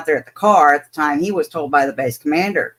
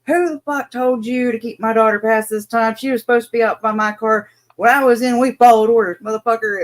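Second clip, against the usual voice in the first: angry dad; 4 semitones higher, 3 dB louder than usual. Retold or imitated. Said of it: "you can hear full force".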